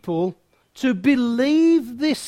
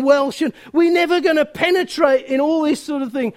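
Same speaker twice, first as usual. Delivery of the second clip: mock complaint; 3 semitones higher than usual. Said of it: "And we go".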